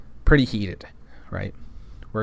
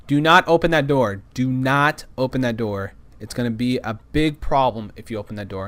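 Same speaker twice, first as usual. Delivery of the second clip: emphatic, spaced-out warning; firm warning. Retold or imitated. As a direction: lay down the rule word by word. Warning vendors about a door.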